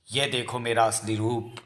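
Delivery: slow, softened menacing announcement; ominous reveal. Acted. Girl revealing to the father she is a witch, ominous reveal. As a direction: draw it out slowly and low-key, ominously.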